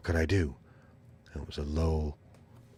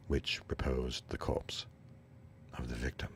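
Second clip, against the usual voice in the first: hushed whisper; 3 semitones lower, 8 dB quieter than usual. A narrator's reading. Hushed at the hidden corpse.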